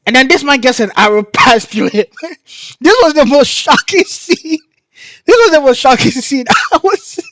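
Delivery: high, loud voice breaking into laughter; shocked laughing. Real, not acted. Telling viewers about the shocking arrow scene, shocked laughing. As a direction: squeal it through helpless laughter.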